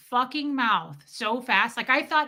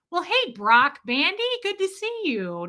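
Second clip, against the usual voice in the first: friendly greeting; 8 semitones higher than usual. Real, not acted. Greeting a viewer joining the chat.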